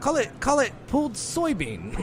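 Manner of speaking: loud, high mocking demand; worked-up rant about soybeans. Real, not acted. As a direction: insist they call it what it is. Ranting about fake meat names.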